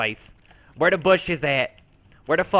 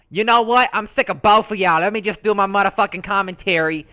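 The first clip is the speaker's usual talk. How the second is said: fed-up outburst; 3 semitones higher, 4 dB louder than usual. Acted. Fed up with the other characters.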